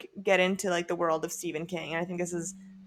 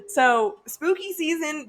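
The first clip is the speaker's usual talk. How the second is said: spooky voice; 8 semitones higher, 4 dB louder, slower than usual. Acted. Announcing the spooky season theme.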